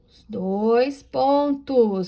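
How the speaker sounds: whispered aside. Real, not acted. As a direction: whisper the term. Professora sussurra o sinal. (sussurrando "os dois pontos")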